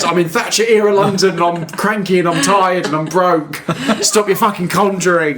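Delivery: a hint of a tired, cranky milkman, laughing. Imitating a cranky milkman telling the neighbours to shut up. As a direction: grumble like a broke, tired worker. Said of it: "that's what he says".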